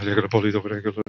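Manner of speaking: low, hushed nervous mutter; a driver hissing a warning to himself about the cops; muttered aside. Pretend. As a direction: say it under your breath, eyes front.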